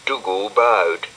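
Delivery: ordinary delivery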